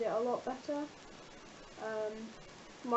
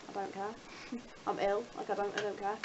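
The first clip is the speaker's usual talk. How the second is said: losing voice; 3 semitones lower, 5 dB quieter than usual. Real, not acted. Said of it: "I'm losing my voice".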